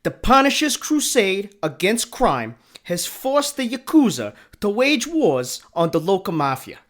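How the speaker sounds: put-on movie blurb in a French accent. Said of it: "that was a really good French accent".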